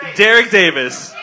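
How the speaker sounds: laughing. Real, not acted. Gleefully blaming a colleague.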